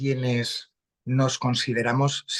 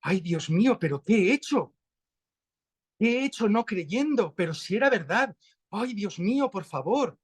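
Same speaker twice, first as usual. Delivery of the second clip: astonished Tomás; 4 semitones higher than usual. Retold or imitated. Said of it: "Está diciendo".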